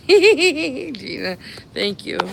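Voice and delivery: name called out through a loud, high laugh. Real, not acted. Streamer cracking up at a friend in the chat, laughing.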